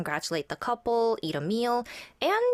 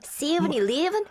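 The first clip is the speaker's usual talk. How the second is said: Southern accent; 6 semitones higher than usual. Shown as a demonstration. Guest shows Georgia talk, higher Southern accent. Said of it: "exchange student in the southern area".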